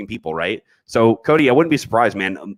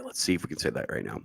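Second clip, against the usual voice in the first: ordinary talk, nothing marked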